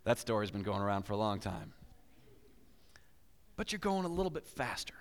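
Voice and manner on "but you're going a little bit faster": conspiratorial whisper. Acted. Preacher telling the congregation about speeding, whispering. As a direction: whisper it like a secret.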